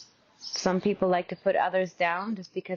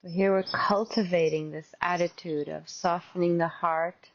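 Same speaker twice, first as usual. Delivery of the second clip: measured meditation guide with long pauses; guided meditation. Real, not acted. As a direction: gently guide them into open awareness.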